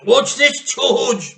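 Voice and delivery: high, loud excited shout; husband shouting to George in delight; gleeful shout. Acted. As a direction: shout it out hopping about. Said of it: "Mister Cranky shouted".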